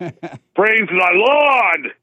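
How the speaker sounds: high, slow, drawn-out cry of praise; ecstatic praise. Pretend. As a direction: let it ring out to heaven. Releasing Holy Ghost language.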